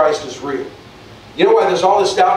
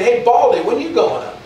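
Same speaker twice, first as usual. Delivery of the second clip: higher sing-song taunt; mocking kids; 6 semitones higher than usual. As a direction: jeer at the bald prophet like a child. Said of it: "they were making fun of him".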